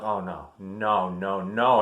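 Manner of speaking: slow, drawn-out retold no's; dismayed realization. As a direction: stretch each no in mock dread. Retold dread on seeing the colonel.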